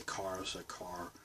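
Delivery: car with a sounded r; car without the Boston twang; suppressed Boston accent. Shown as a demonstration. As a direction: say car in standard American. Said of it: "I can suppress it".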